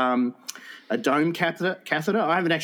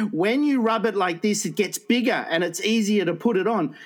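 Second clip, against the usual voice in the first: higher, eager nun voice; mock nun instructing; 5 semitones higher than usual. Nun showing the carer the trick, high and eager. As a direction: explain it like a keen old nun. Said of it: "she says".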